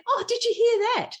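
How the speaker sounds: high "oh", mildly surprised; retold surprise. Herself asking her partner about the radio, mild surprise. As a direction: lightly replay noticing the radio.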